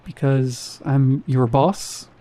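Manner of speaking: unsure rising question, drawn out slowly. A narrator's reading. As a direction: ask it as if unsure of his own authority. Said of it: "He said it like a question".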